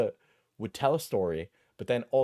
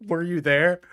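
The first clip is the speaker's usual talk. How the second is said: laughing disbelief; 7 semitones higher, 6 dB louder than usual. Real, not acted. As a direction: laugh through a rising question. Mocking the critic, laughing.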